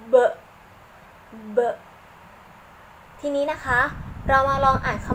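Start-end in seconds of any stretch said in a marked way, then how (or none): 0.1-0.1 B as a short 'buh', popped from closed lips; pressed-lip letter sound. Shown as a demonstration. Teacher telling children to press their lips, letter-sound demo. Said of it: "เราจะต้องเม้มปากนะคะ". 1.6-1.6 B as a short 'buh', popped from closed lips; pressed-lip letter sound. Shown as a demonstration. Teacher telling children to press their lips, letter-sound demo. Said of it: "เราจะต้องเม้มปากนะคะ".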